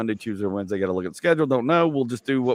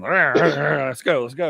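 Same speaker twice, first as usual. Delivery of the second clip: pumped-up hype; 3 semitones higher, 4 dB louder, much slower than usual. Retold or imitated. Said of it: "I just get the adrenaline".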